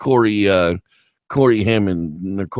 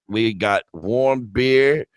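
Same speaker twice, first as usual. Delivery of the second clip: put-on old hag barmaid; much slower than usual. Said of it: "the old hag is like".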